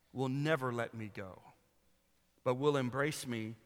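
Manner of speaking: devotional poem read aloud, building down to a near hush. Acted. Reads poem aloud in sermon.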